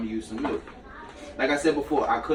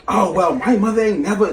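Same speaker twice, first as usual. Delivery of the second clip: Corinne quoted; 6 semitones higher, 7 dB louder than usual. Retold or imitated. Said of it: "Corinne like".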